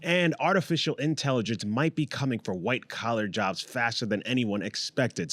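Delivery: news anchor voice. Acted. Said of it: "my, uh, news anchor voice?".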